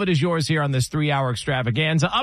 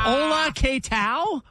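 mock Spanish; 10 semitones higher, much slower than usual.

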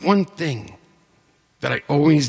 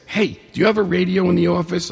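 mock breathless friend; 6 semitones higher, faster than usual. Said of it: "And he's all hyperventilating".

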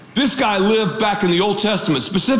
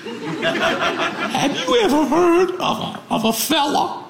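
hammed-up Southern lady, pitched way up; mother-in-law's Southern accent; 11 semitones higher than usual. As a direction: imitate a mother-in-law with a big Southern accent. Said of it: "She has a one-of-a-kind Southern accent".

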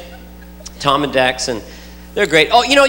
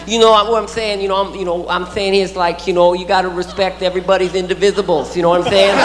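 Mike Tyson impression. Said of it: "I love Mike Tyson".

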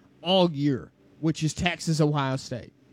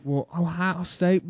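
put-on Southern accent. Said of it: "here's how it would sound for the South".

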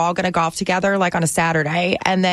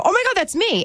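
excited retold reaction; 11 semitones higher than usual. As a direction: react high and thrilled, retelling it. Retells hearing own name called.

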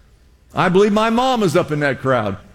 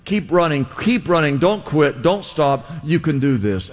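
rally the fighter, then bring it down to steady assurance; preacher's urgent battle encouragement, pitch stepping down; David. Acted. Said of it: "he's David saying".

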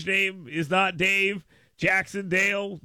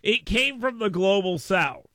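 attempted Southern accent; half-hearted Southern accent. Shown as a demonstration. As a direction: try it with a Southern twang. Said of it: "I can do a Southern accent".

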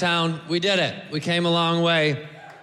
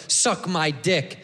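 negative tone; 5 semitones lower, much slower than usual. Shown as a demonstration. Comic showing how men say it as an insult, slow and sneering. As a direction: Suck my dick said slow and low, sneering. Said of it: "We say it negative".

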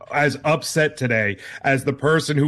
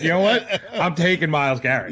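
laughing owner quote; faster than usual. Retold or imitated. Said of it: "He's like".

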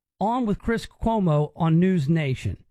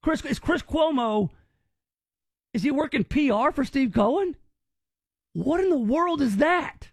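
higher, disbelieving; incredulous; 5 semitones higher than usual. Real, not acted. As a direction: scoff in disbelief. Host mocks interviewer's sympathy.

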